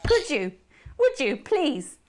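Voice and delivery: host begging Alex to love her; pleading. Acted. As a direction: plead for love, pitch rising. Desperate plea to Alex.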